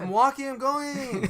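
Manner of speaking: loud, high bratty protest; whining kid. Pretend. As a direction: holler back like a stalling child. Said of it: "like, the kid who's like".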